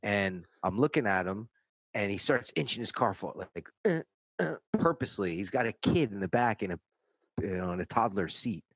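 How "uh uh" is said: short high car noises, "uh, uh"; two little engine-lurch grunts; imitated car lurches. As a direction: mimic a car creeping forward in jerks. Imitates car inching forward at him.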